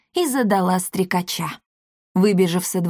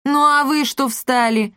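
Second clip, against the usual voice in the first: a bit high, irritated snap; 6 semitones higher than usual. A narrator's reading. Father snaps at the guests, irritated. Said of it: "раздражённо обратился Полиамор".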